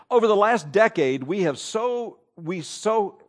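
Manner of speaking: halting, tangled reading that breaks off; fumbled read of the quote; stumbled first try. Real, not acted. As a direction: trip over the words and lose the line. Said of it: "let me try this again".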